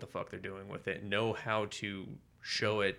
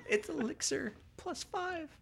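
much higher, slow, put-on game voice; mock game item voice; 6 dB quieter, slower than usual. Joking to his co-host that the milk is a potion, high and slow. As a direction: read it like a video game item.

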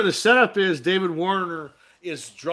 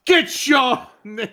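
squeaky voice; 11 semitones higher, 8 dB louder than usual. Pretend. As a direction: squeak it like a cartoon. Mock squeaky voice to friend.

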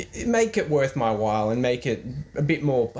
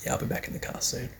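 mock glum; 8 dB quieter, faster than usual. Podcast host jokes about homelessness.

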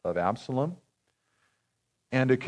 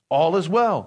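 raised, ringing call to the king; cried out; 8 semitones higher, 5 dB louder than usual. A narrator's reading. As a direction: call it out high and strong. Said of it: "cried out to the king".

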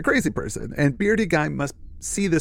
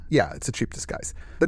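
lower, softer sheepish admission; retold sheepishness; 3 semitones lower, 4 dB quieter than usual. Beardy guy admitting the disguise, mildly sheepish. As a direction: own up a touch sheepishly. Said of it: "he sheepishly says".

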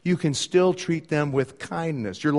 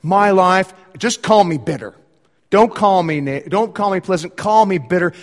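bitter Naomi; 5 dB louder than usual. Acted. Naomi voiced complaining to friends.

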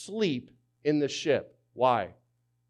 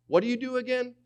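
incredulous question; 12 semitones higher, 4 dB louder, faster than usual. Retold or imitated. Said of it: "It's like".

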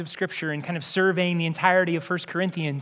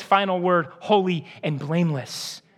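tender verdict; 2 semitones lower than usual. Pretend. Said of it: "where Jesus says".

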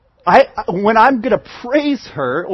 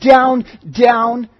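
emphatic down; 4 dB louder than usual. Retold or imitated. Sinking down with the crowd.

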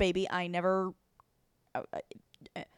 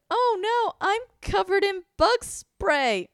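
mock panic; 11 semitones higher, 4 dB louder, slower than usual. Dodging holding the baby.

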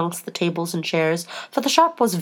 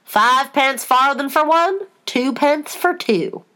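high, slow, emphatic Sheep; deliberate high-pitched price patter; Sheep shopkeeper; 7 semitones higher, slower than usual. A narrator's reading. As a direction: call out prices slowly and high. Sheep quoting prices in story.

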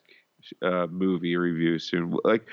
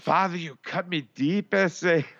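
high-pitched mock Spanish accent, hammed up; 9 semitones higher than usual. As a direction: play the son in a cheesy Spanish accent. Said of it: "we get to do the accent".

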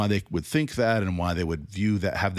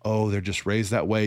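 mock condescension. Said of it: "really good at condescension".

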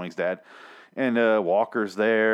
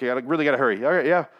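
mock rushed traveller; 3 semitones higher, faster than usual. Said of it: "running late for the airport".

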